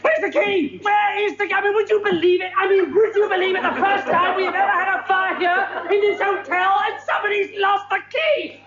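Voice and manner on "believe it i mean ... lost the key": exasperated rant. Acted. Exasperated at lost key.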